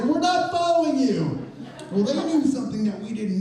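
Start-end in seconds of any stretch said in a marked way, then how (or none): 0.0-1.5 high, louder voiced protest; protesting strangers. Seated strangers answer the shouting man, high and indignant. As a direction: wave off the accusation, voice up high. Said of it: "they say".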